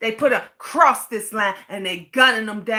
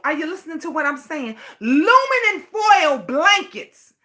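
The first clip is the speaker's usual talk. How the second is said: crying in anger; 3 semitones higher than usual. Real, not acted. Breaks into tears mid rant.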